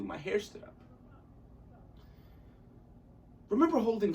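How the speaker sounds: lightly theatrical audition monologue; measured storytelling with acted emphasis; dramatic monologue. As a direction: tell it as a stage monologue, with deliberate pauses. Performs audition monologue as Paul.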